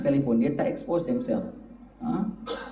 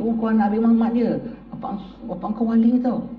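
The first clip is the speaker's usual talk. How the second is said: teasing villager; 6 semitones higher than usual. Retold or imitated. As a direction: tease the boy about his father. People teasing the child. (orang kampung mengusik anak Habib)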